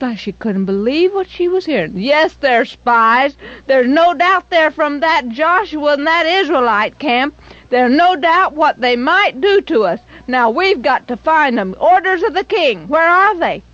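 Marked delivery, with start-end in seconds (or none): 1.9-13.6 louder, higher, insistent guard; stern soldier. Acted. Soldiers insisting to Rahab, loud and stern. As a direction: press her with the king's orders.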